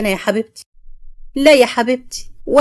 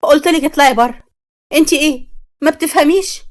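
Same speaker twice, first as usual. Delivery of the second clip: angry shout; 4 semitones higher than usual. Acted. Mai throws mother out.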